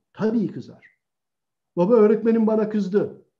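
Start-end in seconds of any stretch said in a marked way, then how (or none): 1.8-3.3 put-on child complaining.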